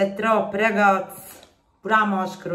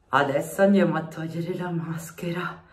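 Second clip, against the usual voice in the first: whispering. Real, not acted. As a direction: whisper it to the viewers. Whispered aside.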